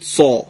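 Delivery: سا with lips rounded as for o; heavy emphatic s. Shown as a demonstration. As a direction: say سا dark and heavy, vowel toward aw. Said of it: "دهانتون حالت گفتن او رو داره". («سا» درشت، با دهان گرد)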